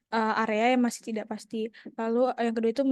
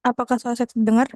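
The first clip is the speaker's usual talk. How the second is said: louder; 10 dB louder than usual. Real, not acted. Checking if audio comes through.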